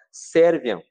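"Serviam" bradado mais alto, decidido; brado no coração. Shown as a demonstration. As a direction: proclame "Serviam" com firmeza. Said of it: "eu dou um brado também no meu coração". (brado decidido de "Serviam")

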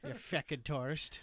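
slow mock-Irish insult; drawn-out stage Irish accent. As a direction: grumble like a put-on Irish local. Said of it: "I would assimilate an accent".

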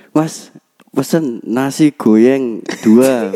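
slow, "goyeng" with y for r; lisping friend. Retold or imitated. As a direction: say "nasi goyeng" with y for r. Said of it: "koncoku iku ku wong iku pelat".

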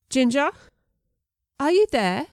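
an English man calling into the dark, lightly voiced; English accent, mild call. A narrator's reading. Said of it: "Mister Bell's strong English accent".

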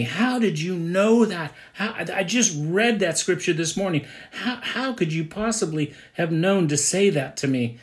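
high, astonished voicing of the counselee; amazed question. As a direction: ask it as someone stunned he knew. Counselee amazed at quoted scripture.

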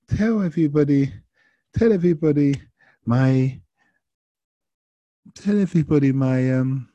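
high, loud, tipsy mock French voice; tipsy Frenchwoman. Tipsy passenger opening up to driver, high French-accented voice. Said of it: "she's a bit tipsy, well, quite a bit tipsy".

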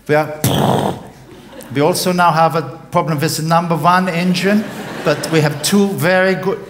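captain over the cabin speaker; captain's announcement. Acted. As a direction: address the passengers like an airline captain. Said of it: "the captain's voice came over the speaker".

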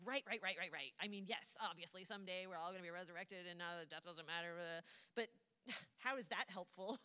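impatient rush of agreement, then pushback; mildly mock an exasperated sister brushing off comfort; exasperated Martha. Martha answers talk of resurrection, acted exasperation. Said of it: "it seems pretty clear from the context that she is so angry".

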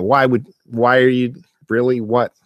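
high-pitched mock yelling at the screen; exasperated TV heckling. Viewer yelling at stupid TV characters, exasperated. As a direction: pester the characters in rising disbelief. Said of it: "you're just yelling at the T V".

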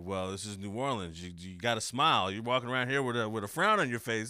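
loud, hammed-up New Orleans cop; retold cop putting on playful showmanship; mock-stern officer turning campy. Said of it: "he thought he was being campy".

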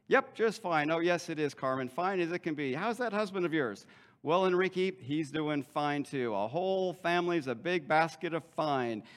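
lightly hammed small talk; overdone pleasantries. Masked churchgoers chatting about families, mildly overdone pleasantness. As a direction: play up the "fine" with mild false cheer. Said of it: "it's just overdone".

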